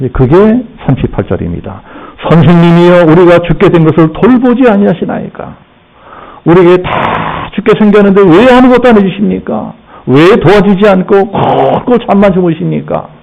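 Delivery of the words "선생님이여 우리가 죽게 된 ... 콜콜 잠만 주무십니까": mildly aggrieved appeal to a teacher; resentful complaint. Acted. Disciples to sleeping Jesus as they face drowning, reproachful. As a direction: question him reproachfully, pitch slightly lifted. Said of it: "원망불평을 합니다".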